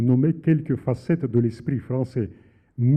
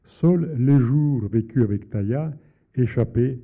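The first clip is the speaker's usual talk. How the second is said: measured, deliberate reading of a novel passage; literary reading; 3 dB louder than usual. Acted. Author reading his novel aloud on air, measured and deliberate. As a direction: read your own prose to the audience, unhurried.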